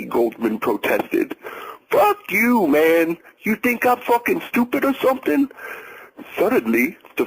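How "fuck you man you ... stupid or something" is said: higher, raging at the waiter; angry outburst. A narrator's reading. The jealous ex-husband cursing the waiter, enraged. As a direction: spit it out in fury.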